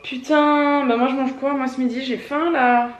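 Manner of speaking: hungry and fed up, let it burst out; exasperated outburst. Real, not acted. Hungry at lunch with nothing left, exasperated outburst.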